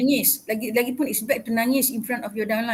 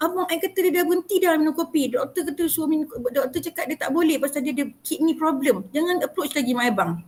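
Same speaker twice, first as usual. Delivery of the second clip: lightly voiced, higher dismissive complaint; a hint of a cross customer; imitating a fed-up customer; 3 semitones higher than usual. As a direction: wave her off, higher and impatient. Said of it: "Ada sekali dia kata".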